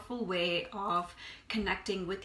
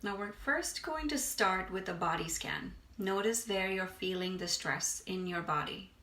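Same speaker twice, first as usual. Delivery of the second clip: unhurried meditation guide, long pauses between phrases; guided meditation. Acted. Meditation teacher guiding listeners to release stress, unhurried guided meditation. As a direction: ease them through breath and body, leaving space.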